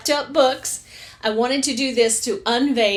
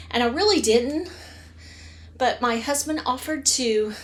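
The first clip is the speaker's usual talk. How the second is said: breathless, talking between breaths. Real, not acted. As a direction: speak short of air after exertion. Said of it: "I'm out of breath".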